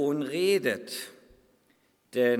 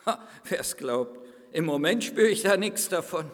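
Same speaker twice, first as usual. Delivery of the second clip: indignant clay lump, lightly voiced; talking lump of clay. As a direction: play a grumpy lump of clay being grabbed. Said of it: "Habt ihr schon mal einen Tonklumpen reden gehört?".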